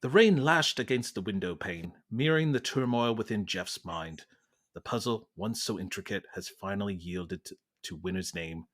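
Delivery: measured British narrator; British accent. Acted. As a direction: Masterpiece Theatre host reading. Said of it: "We're going British".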